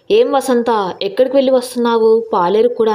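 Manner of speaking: mild mocking sarcasm; lightly voiced village president, sneering; sarcastic. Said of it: "అన్నాడు వెటకారంగా". (కొంచెం వెటకారంగా అడగడం)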